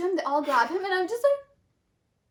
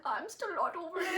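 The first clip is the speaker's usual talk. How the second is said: laughing whisper, pitched up; 4 semitones higher, 8 dB quieter than usual. Retold or imitated. Still guilty, joking.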